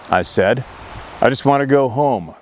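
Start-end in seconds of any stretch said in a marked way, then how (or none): 1.2-2.3 retold crying plea. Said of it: "crying and not understanding".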